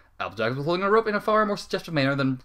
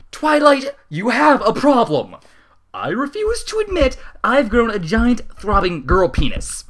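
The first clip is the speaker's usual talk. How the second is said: much higher, louder shout; 10 semitones higher, 9 dB louder, slower than usual. Acted. Rarity shouts at Twilight from the flying bed. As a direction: yell it across the chaos.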